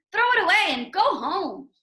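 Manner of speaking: mock the frog as a pushy bird; jeering robins telling Toad to quit; taunting robins.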